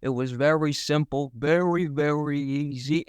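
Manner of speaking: Italian accent. Shown as a demonstration. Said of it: "I did an Italian accent".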